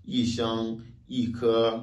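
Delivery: "yi shang, yi ke" with each "yi" falling; fourth-tone yi. Shown as a demonstration. Teacher recaps examples, falling "yi" in both. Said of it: "quatrième ton".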